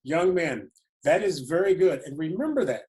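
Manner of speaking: emphatic South African statesman, rolling cadence; stately accented praise, swelling on key words; Nelson Mandela impression. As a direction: praise like an accented elder leader. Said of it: "okay, I'll keep going back to that".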